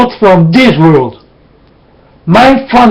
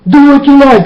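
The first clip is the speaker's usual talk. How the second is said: sarcastic echo; 6 semitones higher, faster than usual. Retold or imitated. Preacher repeating the careless believers' phrase, sarcastic and higher. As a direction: throw their words back with scorn.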